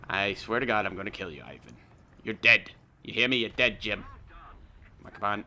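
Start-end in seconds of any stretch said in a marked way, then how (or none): 2.2-4.0 angry yell. Real, not acted. Yelled threat at enemy.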